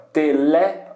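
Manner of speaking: "tele" with a strong "le"; stress on "le". Shown as a demonstration. Teacher showing the bold syllable, stressed "le" in "tele". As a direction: punch the second syllable of "tele". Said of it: "tá em negrito justamente porque é uma sílaba forte".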